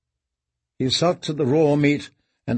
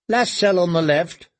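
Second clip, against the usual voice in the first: put-on boy voice; 4 semitones higher than usual. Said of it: "another boy replied".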